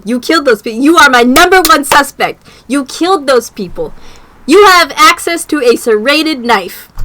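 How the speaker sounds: real annoyed accusation at the game; accusing. Real, not acted. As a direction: jab the accusation at him. Accusing the character repeatedly.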